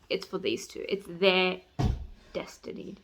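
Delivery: hushed, as if sharing a secret; dreamy whisper. Real, not acted. Fan whispering about the couple's destiny. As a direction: breathe the word destiny.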